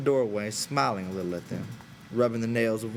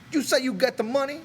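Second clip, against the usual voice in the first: high, louder, suddenly curious; half-believing; 5 dB louder than usual. A narrator's reading. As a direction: ask it as if hooked despite himself. Crooks suddenly interested.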